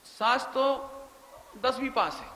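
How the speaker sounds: scornful inner voice. Retold or imitated. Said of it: "ऐसे सोचते हैं".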